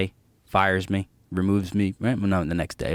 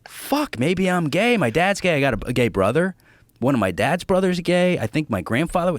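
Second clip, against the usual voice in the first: panicked inner thoughts; 7 semitones higher than usual. Retold or imitated. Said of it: "just going like".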